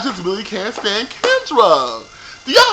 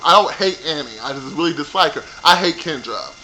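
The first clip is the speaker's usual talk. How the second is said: ordinary talk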